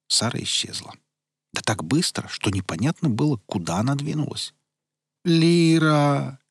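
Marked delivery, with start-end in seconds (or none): 5.2-6.4 high, loud drawn call; desperate call. Acted. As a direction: call out her name desperately. Gargoyle calls out desperately.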